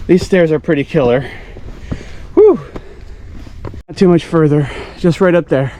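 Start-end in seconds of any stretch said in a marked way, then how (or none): 2.3-2.6 puffing out a tired whew; breathless whew. Real, not acted. Exhale after climbing steep stairs. 3.9-5.7 winded from climbing stairs; puffing between words on the climb; out of breath. Real, not acted. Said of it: "I'm out of breath".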